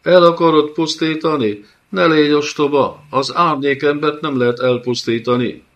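dead wife mocking Kán's threat, high and loud; shrieking undead mockery. A narrator's reading. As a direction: cackle the warning down at the fool. Undead Dana mocks threat.

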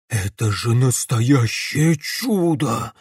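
slow, awed exhale; villain marvelling at the crystal cube; breathed out. Acted. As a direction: let the wonder escape on a breath. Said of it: "выдохнул он".

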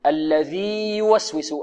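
الذي يوسوس said slowly with the ي kept separate; teacher models the reading; slow careful recitation. Shown as a demonstration. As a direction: draw it out, no merging. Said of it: "خطأ، لا تدغم".

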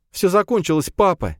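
soft smile. A narrator's reading. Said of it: "с мягкой улыбкой сказала".

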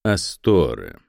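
usual speaking voice

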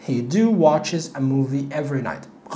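wrong sentence read very slowly; slow wrong example. Shown as a demonstration. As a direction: model the mistake slowly. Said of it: "غلط".

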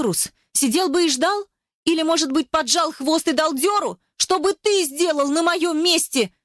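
high, pressing woman's voice; Eva, upset and defiant. Acted. Eva challenges Ruslan on the beach, high and upset. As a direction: throw the questions at him, hurt and angry.

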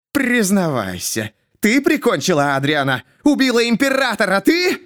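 builds from a hiss to a shouted "ты?"; a madman rising to a shout; hissing accusation. A narrator's reading. Jester hisses at the old lady, then shouts. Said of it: "зашипел в её слепые глаза".

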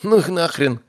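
rising, outraged protest; indignant. Acted. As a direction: throw it off in disgust. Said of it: "возмутился Норрис".

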